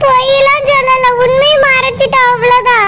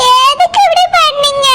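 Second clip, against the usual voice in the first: half-sobbing, half-shouting the question; a tearful outburst at her husband; crying accusation; 2 semitones higher than usual. Acted. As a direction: break down as you demand why. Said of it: "மைனு, அழாத".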